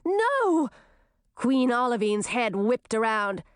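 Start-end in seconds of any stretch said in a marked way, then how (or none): 0.0-0.7 shout. A narrator's reading. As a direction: yell it in horror.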